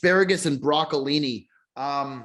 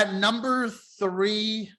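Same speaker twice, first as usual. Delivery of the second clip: laughing; 4 semitones higher, much slower than usual. Real, not acted. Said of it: "I've never seen Bear Down laugh like this".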